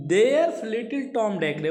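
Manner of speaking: each word read out slowly; measured recitation of verse; slow poem reading. Shown as a demonstration. Teacher reads poem line slowly.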